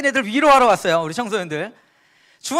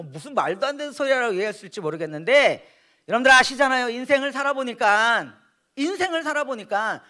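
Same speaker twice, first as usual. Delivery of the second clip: ordinary talk, nothing marked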